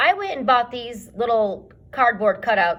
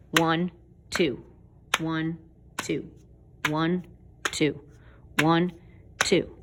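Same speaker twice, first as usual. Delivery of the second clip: slow, measured, metronome-like count; slow steady beat; slower than usual. Shown as a demonstration. Music teacher demonstrating a slow steady beat, counting evenly. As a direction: count evenly with a gap after each number. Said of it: "a slow, steady beat like this".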